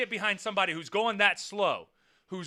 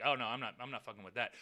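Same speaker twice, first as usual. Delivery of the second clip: low, quiet retreat; backing down; 9 semitones lower, 9 dB quieter, faster than usual. Retold or imitated. Other driver deciding against a fight, quietly backing down. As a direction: imitate a driver wanting no trouble, dropping low and soft.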